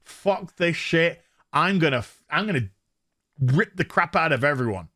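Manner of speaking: low, deliberate tough-guy resolve; gruff action hero. Acted. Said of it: "this guy's just like".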